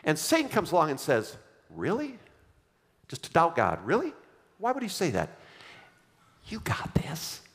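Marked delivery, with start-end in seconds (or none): 1.7-5.3 tempting serpent. Acted. Satan voiced tempting Eve. 6.5-7.4 whispered like a seductive tempter; tempting whisper. Acted. Satan whispering temptation to Eve.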